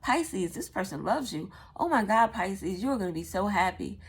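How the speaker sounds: lightly voiced psychic imitation; mock psychic reader. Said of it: "that's what it sounds like".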